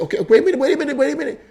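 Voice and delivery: playful pleading to stop; urgent interrupting. Retold or imitated. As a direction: halt her with a laugh. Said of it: "so what I did, I said".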